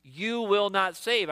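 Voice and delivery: a touch of finger-pointing at God; accusing. Shown as a demonstration. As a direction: jab every word of it. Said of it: "pointing the finger here".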